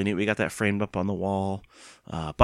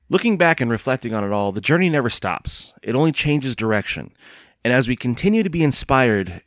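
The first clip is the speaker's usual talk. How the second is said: louder, earnest book reading; reading aloud; 4 dB louder than usual. Acted. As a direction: read it like a proud author. Reads his book excerpt aloud.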